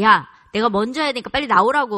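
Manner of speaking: loud mock mom order; exasperated demand to a stubborn son; impatient scolding. Acted quarrel over the computer.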